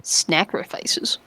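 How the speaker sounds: slow, breathy disbelieving whisper; whispered echo. Pretend. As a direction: hush it, slow and doubtful.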